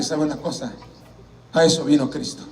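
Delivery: retold tender assurance; gentle reassurance. Gently consoles the weeping man.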